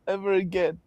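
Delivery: high, loud mock threat, slowing at the end; retold threat. Retelling angry mom's threat.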